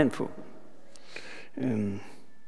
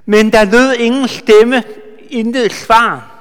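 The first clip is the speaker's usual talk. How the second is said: emphatic reading; 3 semitones higher, 4 dB louder than usual. Shown as a demonstration. Preacher reading the verse aloud to the congregation, emphatic. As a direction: read the verse out strong and ringing. Reads verse, then repeats it.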